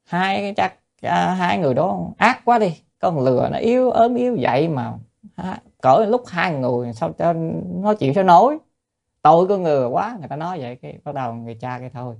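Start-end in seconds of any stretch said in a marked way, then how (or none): 0.1-10.2 onlooker scolding. Retold or imitated.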